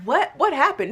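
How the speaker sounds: high-pitched disbelieving what; replaying her stunned reaction, pitch jumping up; retold shock. Telling viewers how she reacted to the agent, in mock shock. Retelling shock at phone bill.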